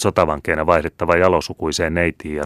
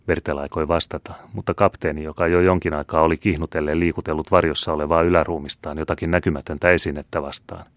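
ordinary delivery

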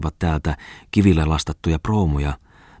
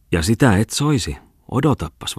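teasing woman; 6 semitones higher than usual. A narrator's reading. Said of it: "vastasi Aina Kustava".

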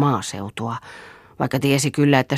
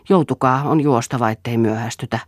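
ordinary delivery, nothing marked

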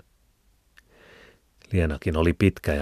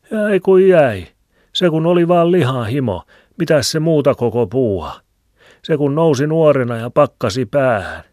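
put-on higher, louder old Filemoni with a cackle; old man's voice; 9 semitones higher, 8 dB louder than usual. A narrator's reading. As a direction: chuckle and ramble like an old hermit. (vanhan miehen hekottava ääni)

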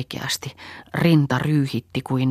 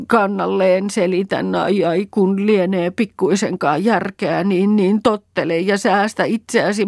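high, louder scolding with pained moans; 7 semitones higher, 4 dB louder than usual.

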